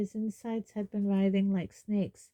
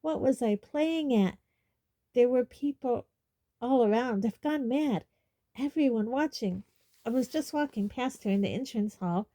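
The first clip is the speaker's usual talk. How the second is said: frantic; 4 semitones higher than usual. Acted. Ron panicking over asking Fleur.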